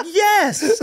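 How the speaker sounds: high squeaky yes. Retold or imitated. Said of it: "She's like".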